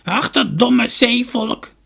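slow, high, scornful crone cackle; high-pitched old woman's scoff; cackling crone. A narrator's reading. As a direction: cackle it slowly, dragging out the words. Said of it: "kakelde de oude vrouw".

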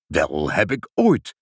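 slow, low indignant exclamation; lightly voiced amazed old Sinterklaas; astonished old Sinterklaas. A narrator's reading. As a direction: draw it out in mild astonishment.

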